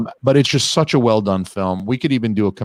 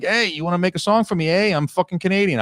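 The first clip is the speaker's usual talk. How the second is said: high, breezy mock-buddy call; a hint of a cocky star phoning a friend; chummy celebrity voice; 8 semitones higher than usual. Host imitating Deadpool star calling a famous singer, mock chummy and high. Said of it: "he calls her up and he's like".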